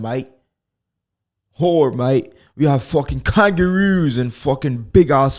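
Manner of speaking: mock Australian accent. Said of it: "I can easily sound like an Australian".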